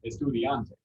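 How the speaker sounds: "Estudiante" in Spanish, es-tu-di-AN-te; stress on AN. Shown as a demonstration. Teacher modelling for class, "Estudiante" stressed on AN. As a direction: put the weight on AN in "Estudiante". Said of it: "Second to last because?".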